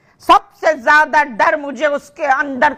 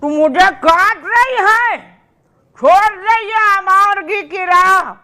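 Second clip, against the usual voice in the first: higher-pitched mother's reproach; indignant, raised-pitch accusation; indignant scolding; 5 semitones higher than usual. Acted. Mother scolds defiant daughter in acted quarrel.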